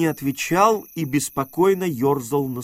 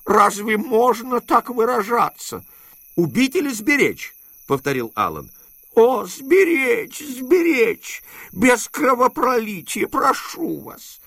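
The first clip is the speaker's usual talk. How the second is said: higher, anxious plea, slowing on сберечь; pleading uncle; 9 semitones higher, 4 dB louder than usual. A narrator's reading. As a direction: beg him to spare the boy. Дядя умоляет. (дядя испуганно умоляет)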